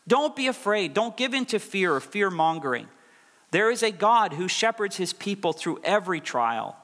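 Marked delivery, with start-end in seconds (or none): 0.1-2.9 high, strong call to courage; firm preacher's plea; rousing exhortation. Acted. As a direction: press the comfort home. Preacher repeats his plea.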